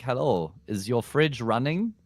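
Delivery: prank caller in a mock German accent. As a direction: put on a light German accent, stretching the question. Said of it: "I did the German accent".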